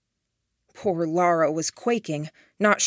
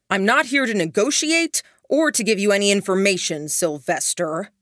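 raised voice; 3 semitones higher than usual. Acted. Duncan shouts through the smoke, raised voice. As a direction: project over the smoke. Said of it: "raising his voice".

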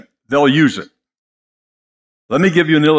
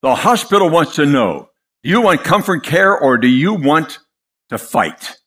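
condescending, sharp. Retold or imitated. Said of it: "in a very condescending, sharp tone said".

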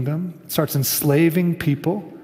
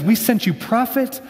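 Jesus's impassioned appeal; 5 semitones higher than usual. Retold or imitated. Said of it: "he says".

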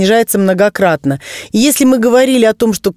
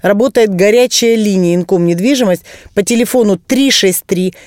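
infomercial. Acted. Guest plugs hotline on air.

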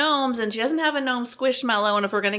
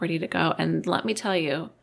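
ordinary talk, nothing marked

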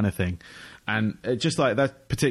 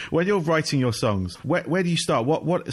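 laughing; 6 semitones higher than usual. Real, not acted. Laughing while asking.

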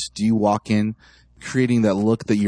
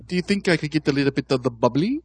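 higher-pitched mock English accent; put-on English accent; 5 semitones higher than usual. Drinker asking the bartender for bubbly, put-on English accent. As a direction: ask politely in a playful English accent. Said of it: "where do you learn English?".

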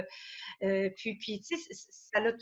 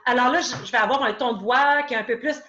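brisk, firm, a bit louder and fast; directive voice; 2 semitones higher, 5 dB louder, faster than usual. Shown as a demonstration. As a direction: push things forward like a lawyer.

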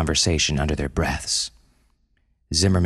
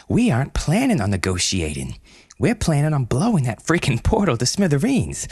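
angry; 5 semitones higher than usual. Acted. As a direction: blast the plan with contempt. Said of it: "Zimmerman scowled".

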